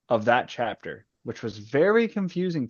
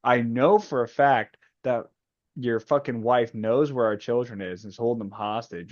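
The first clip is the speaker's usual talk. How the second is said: mock furious tirade, pitched up; Mustang rant. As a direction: rant it like a fed-up leader tearing into him. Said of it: "She's like".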